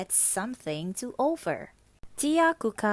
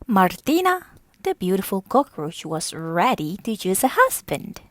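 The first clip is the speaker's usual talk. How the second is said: excited announcement; 8 dB louder than usual. A narrator's reading. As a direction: shout the town's news like a herald. Narrator announcing the news loudly.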